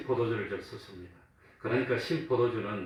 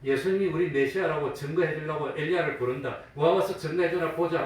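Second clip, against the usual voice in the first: higher-pitched mock taunt; 5 semitones higher, 4 dB louder than usual. Bystanders jeer at Jesus calling Elijah, lightly mocking. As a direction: egg the others on with a light jeer. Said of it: "조롱하는 말입니다".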